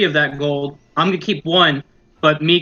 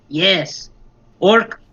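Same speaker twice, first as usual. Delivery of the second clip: goblin voice; 4 semitones higher, slower than usual. Acted. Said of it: "be like".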